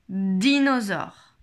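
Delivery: drawn-out word for a listening exercise; slow, careful teacher's dictation. Shown as a demonstration. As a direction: say it slowly, stretching each syllable. Teacher repeats test word.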